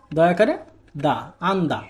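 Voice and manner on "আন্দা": "আন্দা" as an-da, n closing the first syllable; demonstrated Korean pronunciation. Shown as a demonstration. Teacher joining the syllables for learners, demonstrated "আন্দা". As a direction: model "আন্দা" with a d sound in da. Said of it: "Bangla উচ্চারণ হচ্ছে".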